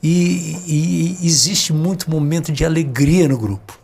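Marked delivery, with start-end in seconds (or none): none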